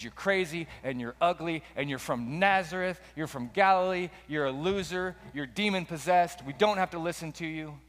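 acted jeers, piled up one after another; mildly hammed-up taunting; heckling crowd. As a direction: toss out each insult, pitch lifting as they mount. Acting the crowd rejecting Jesus.

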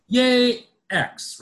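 high, loud gushing cheer; mock cheer. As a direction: gush like a superfan. Mocking celebratory wine coverage.

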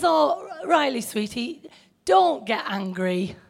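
put-on gentle, soothing grandma voice to an upset child; quiet and calm. Grandma calming upset Riley in the car, soft and gentle. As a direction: soften it, calm the boy down. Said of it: "Just very quiet, calmly".

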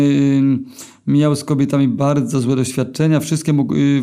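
ordinary delivery, nothing marked

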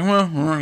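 little mock groans over food; imitated groaning. Podcaster mimicking the reviewer after a bite, small mock groans. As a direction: groan lightly as if mid-bite. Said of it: "he groans a little bit".

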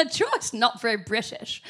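slightly hammed-up British accent; terrible British accent. Repeating British friends' objection to joy, in a bad British accent. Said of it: "excuse the terrible British accent".

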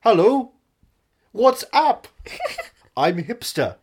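high, loud mock Brooklyn accent. Shown as a demonstration. Guest showing off his hipster act, Brooklyn accent. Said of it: "Listen to my Brooklyn accent".

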